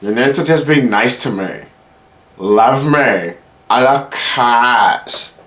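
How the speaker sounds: exaggerated, drawn-out girlfriend voice; girlfriend impression. Girlfriend wants him to be nice, mock plea. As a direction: mimic her pleading, stretching the words. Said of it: "She's like".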